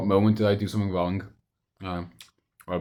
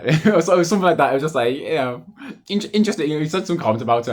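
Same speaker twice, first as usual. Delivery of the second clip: laughing; 7 semitones higher, 5 dB louder than usual. Real, not acted. Laughing while recounting friend's message.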